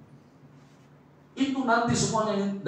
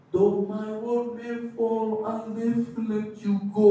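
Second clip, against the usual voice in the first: near tears; 5 semitones higher, 3 dB quieter, slower than usual. Real, not acted. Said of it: "Saya mau nangis ngomongnya".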